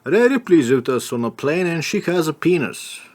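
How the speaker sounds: mock cabin announcement, airline captain; airline pilot voice. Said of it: "I do my voice to them like".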